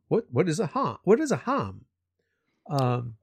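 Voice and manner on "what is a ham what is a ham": puzzled question with "ham" said as "hahm"; British pronunciation. Retold or imitated. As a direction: imitate the British vowel in "ham". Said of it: "It's not ham".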